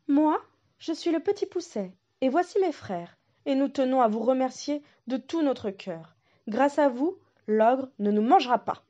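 lightly voiced grateful small boy; a hint of a child thanking; little boy voice. Little Pousset thanks the wolf, lightly voiced.

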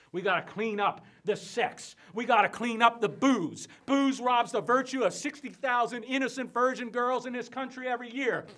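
building from loud to high, shouted frenzy; fiery tirade. Acted. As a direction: rail against sin, climbing with every threat. Preacher rails against booze.

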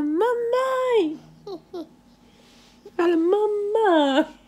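high, stretched motherese, coaxing; mother coaxing her baby to say mamãe, high baby talk. Acted. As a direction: sing it up high so the baby copies you.

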